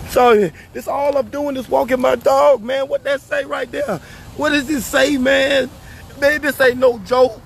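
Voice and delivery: heated, exasperated rant; real angry protest. Real, not acted. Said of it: "I'm so mad".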